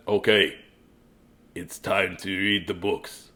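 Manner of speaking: low slow soft impression; a soft put-on Christy. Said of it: "It's not Christy's real voice".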